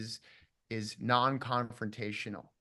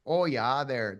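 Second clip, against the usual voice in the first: put-on old Minnesota accent; 5 dB louder, slower than usual. Shown as a demonstration. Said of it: "that has the old".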